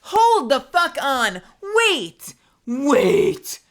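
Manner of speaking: loud, high-pitched stop; wait, wait, hold on; stunned halt. Real, not acted. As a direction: freeze in disbelief. Trying to understand the death.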